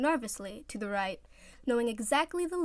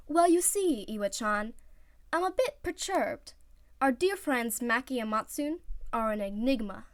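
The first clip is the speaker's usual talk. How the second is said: theatrical; 3 semitones higher than usual. Acted. Oikawa explaining his plan, theatrical. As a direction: play the mystery up.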